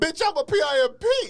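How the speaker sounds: very loud, high yell, voice breaking on P. Retelling a guy bursting out of the club doors, imitating his voice cracking on the last p. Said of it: "his voice cracked when he said the last P".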